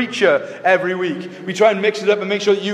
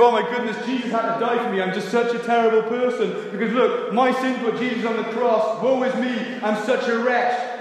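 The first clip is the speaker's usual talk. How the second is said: a hint of a guilt-ridden believer moaning, softer; mock self-pitying wretch; 4 dB quieter than usual. Pastor mimicking a churchgoer wallowing in guilt, mock self-pity. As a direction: sigh it out like someone drowning in guilt. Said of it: "live in this kind of sense of".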